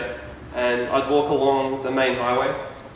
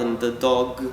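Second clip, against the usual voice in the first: sounded-out reading; 3 dB quieter, slower than usual. Retold or imitated. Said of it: "pronouncing out vowels and sounds".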